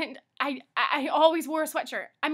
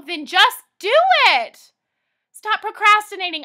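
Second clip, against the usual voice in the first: loud and slow, much higher; forceful push; 7 semitones higher, 11 dB louder than usual. Real, not acted. Urging the viewer to stop waiting, loud and slow. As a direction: hammer it home to the viewer.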